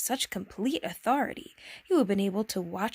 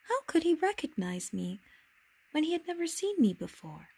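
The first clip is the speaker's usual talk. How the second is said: little prince voice; 7 semitones higher than usual. Acted. Little prince wonders aloud.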